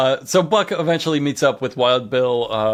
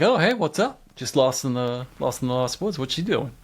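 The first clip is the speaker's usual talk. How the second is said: mock casual; 3 dB quieter than usual. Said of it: "super casual".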